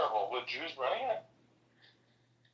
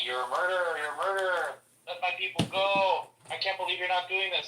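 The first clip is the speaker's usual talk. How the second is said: mild mock yell, slightly raised; 4 semitones higher than usual. Imitating college protesters at the guy, mild mock yell. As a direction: imitate a protester's yell without full volume. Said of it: "yelling at the guy".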